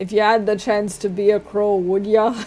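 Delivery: bad, terrible put-on Scottish brogue. Talking while playing TLD, asking a question in a terrible Scottish accent. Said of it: "In a terrible Scottish accent".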